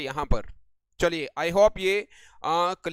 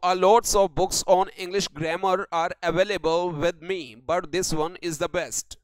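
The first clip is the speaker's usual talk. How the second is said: reads each word out very slowly for copying; slow dictation reading; much slower than usual. Shown as a demonstration. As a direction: spell out the sentence word by word like dictation. Dictating sentence again.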